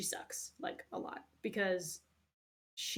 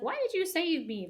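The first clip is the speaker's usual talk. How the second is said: put-on higher, louder bratty girl voice; whiny Kiara; 10 semitones higher, 6 dB louder than usual. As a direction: play her as an ungrateful brat.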